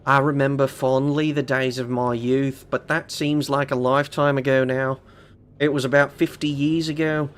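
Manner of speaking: a weak Australian documentary read; Australian narrator accent. Pretend. Streamer reading the butler's note in a faint Australian accent for chat. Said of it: "that sounds terrible".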